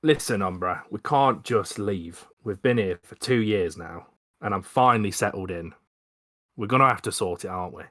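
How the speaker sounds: bad Cockney accent attempt; a shaky London Cockney twang. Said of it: "I'm gonna try and do a really bad Cockney accent".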